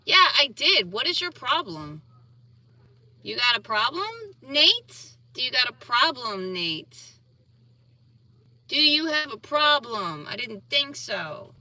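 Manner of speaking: pointed challenge, questions pushed up; confrontational challenge. Real, not acted. Speaker confronts an objecting viewer, confrontational challenge. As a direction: square up to a critic, daring an answer.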